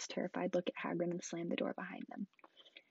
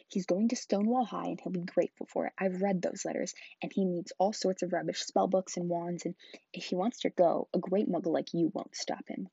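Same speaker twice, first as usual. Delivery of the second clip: louder, firm and angry; angry growl; 5 dB louder than usual. Acted. Hagrid growling back at Uncle Vernon, louder and angry. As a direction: growl it at him like a big angry man. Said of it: "growled Hagrid".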